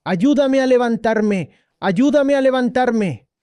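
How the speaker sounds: a monk stuck in the snow, mildly mimed yelling; retold cry for help. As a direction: call out for help from the snow, half-acted. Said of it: "y gritó".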